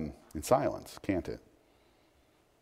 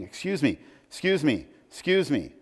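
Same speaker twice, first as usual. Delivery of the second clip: a light hint of a nagging little boy, pitched higher; pestering child; 6 semitones higher than usual. Little Tommy chasing George round the house, lightly voiced pestering. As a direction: chirp it over and over like a small kid tugging a sleeve.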